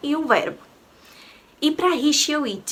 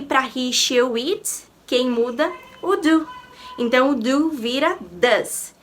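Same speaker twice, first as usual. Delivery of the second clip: ordinary talk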